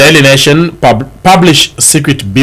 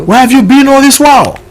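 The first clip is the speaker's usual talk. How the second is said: politician as messiah; 10 semitones higher than usual. Acted. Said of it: "the way they sound".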